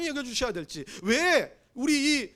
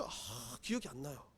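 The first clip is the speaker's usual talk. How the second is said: ordinary talk, nothing marked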